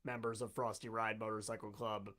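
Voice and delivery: low, quiet giant robot announcement; loudspeaker robot voice. Acted. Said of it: "you hear a booming voice out of a loudspeaker".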